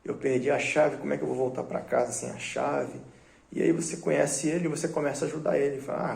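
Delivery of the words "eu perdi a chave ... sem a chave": put-on drunk voice. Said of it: "bem bêbado mesmo, fora de si".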